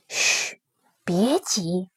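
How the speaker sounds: hushed, urgent whisper; stage whisper. A narrator's reading. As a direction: whisper so the bandits keep still. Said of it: "李勇小声地回答".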